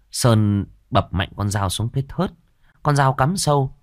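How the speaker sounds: ordinary delivery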